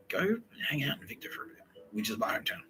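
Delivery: hushed, breathy whisper; whispered advice. Retold or imitated. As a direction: whisper it like a secret tip. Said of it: "quietly using space magic".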